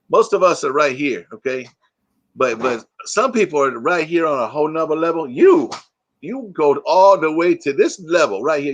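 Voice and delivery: a hint of the Key and Peele hype man; Key and Peele bit. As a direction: build it up like the sketch, on a whole nother level. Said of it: "That's from Key and Peele".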